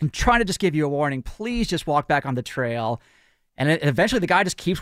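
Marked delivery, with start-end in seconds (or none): 0.0-3.0 super nice ranger. Retold or imitated. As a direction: lightly mimic a nice ranger pleading. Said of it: "super nice".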